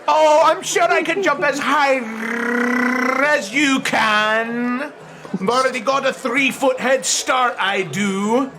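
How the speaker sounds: lightly voiced cocky competitor; a touch of boasting, words stretched out; confident rival jumper. Rival answering the jumping challenge, lightly cocky.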